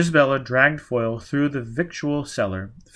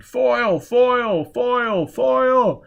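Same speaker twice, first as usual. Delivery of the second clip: much higher, loud repeated calls; soldiers shouting; 12 semitones higher, 6 dB louder, slower than usual. Acted. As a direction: hunters calling him out.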